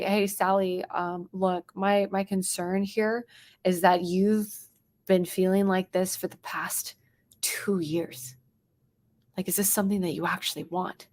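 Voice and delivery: quiet pointed challenge; challenging tone. Shown as a demonstration. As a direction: challenge a hesitant prospect gently. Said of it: "I'm challenging her".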